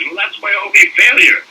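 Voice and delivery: high-pitched mock protest; Mel Brooks. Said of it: "whenever I bring that up to Mel".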